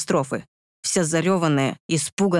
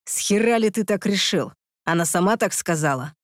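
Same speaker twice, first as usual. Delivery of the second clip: hissed; 2 semitones higher than usual. Acted. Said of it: "прошипел я".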